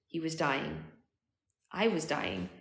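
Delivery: measured, expressive audiobook reading; story narration. A narrator's reading. Narrator telling of finding his dying future self, story narration. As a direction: read it as an unfolding dramatic story.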